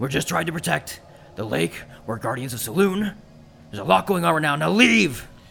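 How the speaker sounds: werewolf voice with heavy, audible breathing. Game master voicing a werewolf who looks at the player, heavy breathing. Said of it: "heavy breathing, says".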